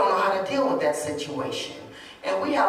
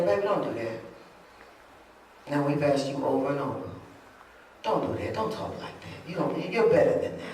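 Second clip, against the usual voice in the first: soft, lowered parental correction; calm, quiet coaxing, trailing softer; gentle encouragement; 3 semitones lower, 4 dB quieter than usual. Retold or imitated. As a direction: gently talk the child round. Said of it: "words of encouragement starts coming out".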